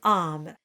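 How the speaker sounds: Âme with a dark back A. Shown as a demonstration. French lesson, teacher models the dark vowel in Âme. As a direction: say Âme with the darker A. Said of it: "pronounce French word".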